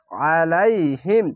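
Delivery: আলাইহিম with a thick, throat-pressed first vowel; slow Quranic recitation; heavy throaty ain. Shown as a demonstration. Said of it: "আইনটিকে মোটা করে গলায় চিপে পড়বেন".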